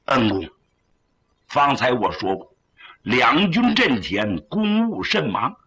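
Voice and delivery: put-on solemn young general. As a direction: take a dignified, grateful leave. General Chang Sheng takes leave.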